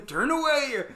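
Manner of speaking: high loud laughing urge; laughing self-pep talk. Retold or imitated. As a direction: hold back tears, laughing. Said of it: "Trying to be all like".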